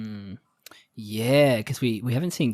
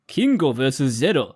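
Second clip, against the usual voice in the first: episode title in a put-on Japanese accent; 3 dB louder than usual. Shown as a demonstration. Podcast host reading the title, Japanese accent. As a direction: try an authentic Japanese accent on "Kingo versus Zero". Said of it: "wanting to do an authentic Japanese accent".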